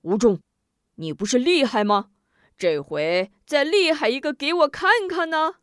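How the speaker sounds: loud jeering, rising high; mock the trapped hero; sneering taunt. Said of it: "门霸一旁冷笑道".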